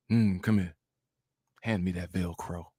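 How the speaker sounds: low, soft and deep, a mock seductive woman; deep Princella voice. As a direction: drop deep and quiet, hamming up Princella's foreplay voice. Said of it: "It's all deep too".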